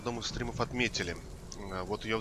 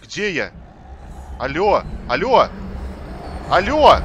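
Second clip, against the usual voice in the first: slow drawn-out loud calls; exasperated yelling; 5 semitones higher, 10 dB louder, slower than usual. Real, not acted. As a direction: yell hello into the void. Lost in game, yelling.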